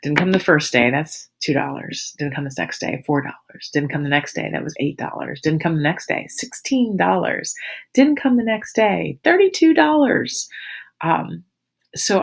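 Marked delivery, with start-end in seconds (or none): 0.0-10.5 Joey counting up. Retold or imitated. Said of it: "and he goes".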